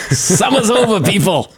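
put-on Boston accent, high and laughing. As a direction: say it like a Boston local. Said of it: "That's my Boston accent for you".

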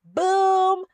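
high, loud, slow hammed-up cheer; mock Che. Mocking Che cheering on Carrie, hammed-up high and loud. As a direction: ham up a cheesy podcast host. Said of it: "Che says".

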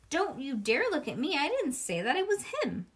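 high, defensive protest; indignant girl. Acted. May to classmates, defensive and high. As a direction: push the blame away, rising.

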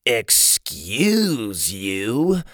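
very drawn-out, disgusted reproach; mild disgust. Acted. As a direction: stretch the words out in mild disgust.

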